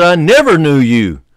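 "never" stretched out and punched; stress on never. Acted. Preacher quoting Jesus to the congregation, emphatic stress on "never". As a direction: repeat it slowly, driving home "never". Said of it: "I emphasize that word never".

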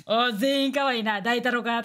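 slow, drawn-out mock praise from the top fragger; joking slow boss voice. Gamer joking boss voice to teammates. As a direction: play the lordly boss, lightly. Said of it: "めちゃくちゃふざけてたりもする".

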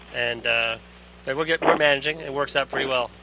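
distant radio transmission voice; sci fi communicator. Real, not acted. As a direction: talk as if through a space radio. Astronaut answers over radio downlink.

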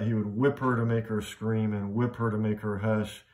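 even beat on whip and whip; rhythmic reading. Shown as a demonstration. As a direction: whip stressed evenly in both halves. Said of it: "notice the rhythm of that".

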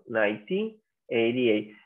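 slow, low "nineteen eighty-eight" in two chunks; year in two pairs. Shown as a demonstration. Teacher has the class notice, "nineteen eighty-eight" said slowly in pairs. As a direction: model "nineteen" then "eighty-eight", unhurried. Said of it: "Fíjense, chicos".

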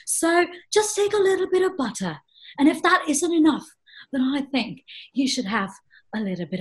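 lightly put-on sing-song voice with big pitch swings; a playful lecture on butter and chocolate; performed impression. Performer to the host, doing a light put-on voice. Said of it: "that was superb".

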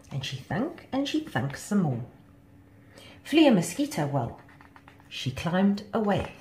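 lilting read of a rhyming tale; children's story narration. A narrator's reading. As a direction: tell it to children, line by line.

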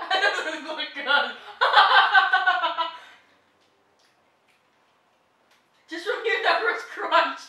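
laughing. Real, not acted. Laughing while describing crunch.

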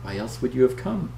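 put-on weak old woman. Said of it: "she says weakly".

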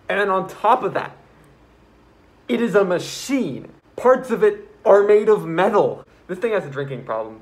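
getting worked up. Real, not acted. Piling up the monster's traits.

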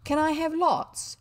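put-on hopeful small boy; eager boy. William asking mother.

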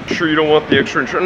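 uppity clerk. Retold or imitated. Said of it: "she gets all uppity".

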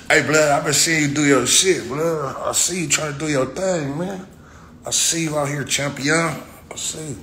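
high, loud hype-man greeting, pitch up; hyped fan greeting. Retold or imitated. Fan hyping him up on the street, excited loud greeting.

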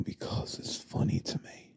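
whisper. Acted. Stranger explains his laugh.

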